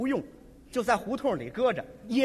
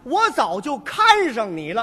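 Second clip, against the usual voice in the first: yelling; 6 dB louder, slower than usual. Retold or imitated. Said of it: "这个姑娘想喊呐".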